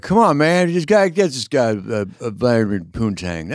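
high loud raspy Biden yell; whisper-shout like Biden. Retold or imitated. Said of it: "did you do the whisper yell?".

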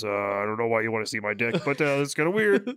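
lightly voiced polite Sasquatch, quick start; a hint of a refined Sasquatch; sophisticated Sasquatch voice. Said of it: "very sophisticated, like, Sasquatch voice".

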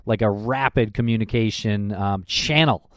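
mock-baffled protest; sarcastic disbelief. Cohost feigning bafflement at poor police communication, sarcastic. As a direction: act as if this is news to you, lightly sarcastic. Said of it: "That was heavily draped in sarcasm".

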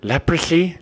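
high-pitched cartoon sloth voice; goofy high cartoon character impression; Sid the Sloth. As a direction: squeal it as a puzzled question. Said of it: "Remember Sid the Sloth goes".

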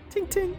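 mouth-made metal tink; tiny metal tink. Acted. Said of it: "You made the tink with your mouth".

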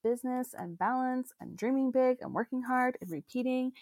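slow cowboy twang; cowboy drawl. Real, not acted. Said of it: "don't know why I sound like a cowboy".

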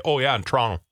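"Toronto" squeezed into "Tronno"; casual "Toronto" with the second T lost; local run-over pronunciation. Retold or imitated. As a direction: imitate a local running "Toronto" together. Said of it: "They just run it over".

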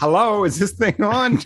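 comedian testing the mic. Retold or imitated. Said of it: "Did you do the".

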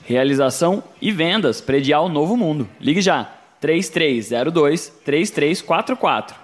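slow clear phone number read; infomercial. Acted. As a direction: spell out the number for listeners.

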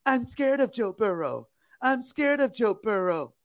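high whimpering fake fear; mock scared voice. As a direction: whine like a scared fan. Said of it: "And here he comes".

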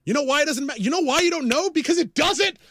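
rising into a loud, high outburst; furious podcast rant about merch toys; angry rant. Real, not acted. Ranting at peak.

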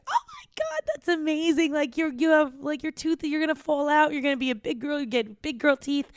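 high-pitched, gushing reassurance; excited aunt. Retold or imitated. Aunt cheering up a girl with a loose tooth, imitated high excitement. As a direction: imitate an aunt squealing with delight for a child.

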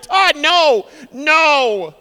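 high loud pleading no; pleading wife. Retold or imitated. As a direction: beg him in fear. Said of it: "And she's like".

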